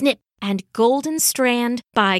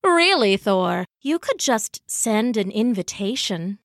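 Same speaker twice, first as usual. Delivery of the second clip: joking. Acted. Loki in trouble before Thor, joking reproach. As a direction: tease with mild mock reproach. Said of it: "always joking, even when he was in trouble".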